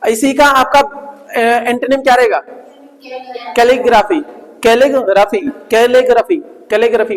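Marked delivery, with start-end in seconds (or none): 3.5-7.2 "कैलीग्राफी" repeated evenly, each part distinct; model pronunciation. Shown as a demonstration. Teacher drilling students to say it, clearly sounded "कैलीग्राफी". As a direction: sound out "कैलीग्राफी" several times for copying. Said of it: "बोलो".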